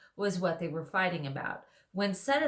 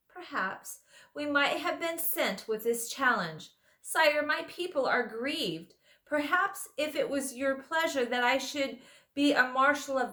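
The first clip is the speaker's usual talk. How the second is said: higher, louder courtly mouse voice; a small knight pleading his honor with dignity; proud mouse knight; 6 semitones higher, 4 dB louder than usual. Acted. Reepicheep the mouse speaks.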